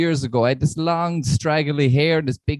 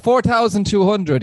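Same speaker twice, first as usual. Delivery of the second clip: put-on Irish accent; 4 semitones higher, 3 dB louder than usual. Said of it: "He's gone back to an Irish accent there".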